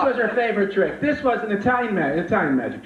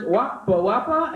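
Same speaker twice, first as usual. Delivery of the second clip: mock magic words; 4 semitones higher, slower than usual. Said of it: "A few more magic Italian words".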